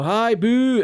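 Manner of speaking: high, loud mimicked heckle; mock booing. Comic acts out being booed straight off stage, mock loud boo.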